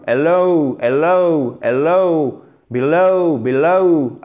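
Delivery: hello and below with a long gliding final ow; diphthong on final syllable. Shown as a demonstration. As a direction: stretch the end of hello and below into a double sound. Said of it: "ce deuxième son, que ça soit pour below et pour hello".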